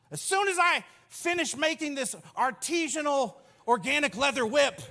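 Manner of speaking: a fussy artisan, fussing calmly; mock fussy craftsman. Jesus weaving his whip, prim put-on voice. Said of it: "he's like".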